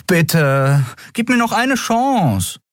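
put-on young Miko pleading with Nelen. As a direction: beg her, desperate. Miko begging again.

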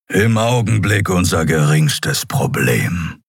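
slow, grounded gruff voice; gruff lion-man. Acted. Keru dismissing Nelen's questions, slow gruff voice. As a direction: brush the worry aside, slowly.

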